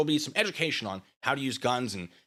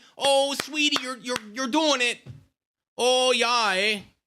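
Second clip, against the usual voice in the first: put-on shrill, loud northern Midwestern accent; 11 semitones higher, 5 dB louder than usual. Cheering someone on the way their mother might, in a northern Midwestern accent. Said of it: "I sort of did like a northern Midwestern accent".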